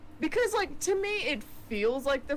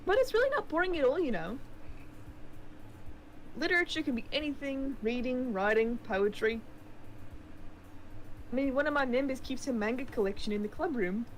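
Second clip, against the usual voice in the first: put-on New Zealand accent. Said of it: "keep using the New Zealand accent".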